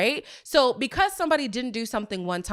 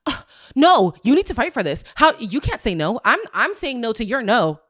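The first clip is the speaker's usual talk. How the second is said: mock frantic protest; 6 dB louder than usual. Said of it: "she cannot cope".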